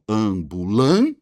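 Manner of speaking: "Ambulância" slow and split, LÂN rising strongly; stress on penultimate. Shown as a demonstration. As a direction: hold and lift LÂN in "Ambulância". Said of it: "a penúltima sílaba é a sílaba mais forte".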